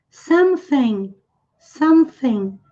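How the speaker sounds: "something" with the TH as tongue between the teeth, slow; th sound. Shown as a demonstration. Teacher models for students: slow "something" with careful TH. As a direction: slowly bite the tongue for the TH in "something". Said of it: "T H requer a nossa atenção".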